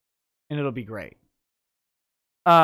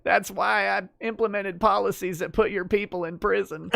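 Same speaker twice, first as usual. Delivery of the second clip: lightly voiced politician impression; a hint of Clinton; Bill Clinton. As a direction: deliver it as a mock-presidential confession. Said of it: "while speaking as Bill Clinton".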